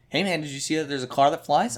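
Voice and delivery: quick, casual mock excitement; eager spoiler. Someone blurting a spoiler to an excited fan, lightly mocked eagerness. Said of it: "somebody will just come out and be like".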